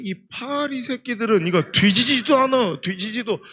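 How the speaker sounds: lightly voiced old farmer ignoring the buyer; old man dodging. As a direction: mutter at the flies, slowly, to dodge the haggle. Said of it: "그때".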